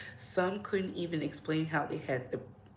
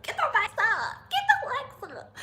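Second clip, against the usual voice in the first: very high, loud squealed cheer; rally the viewers in a high-pitched yell; squealing hype call; hyped-up squeal; 6 dB louder than usual. Pretend. Hype chant urging viewers to like.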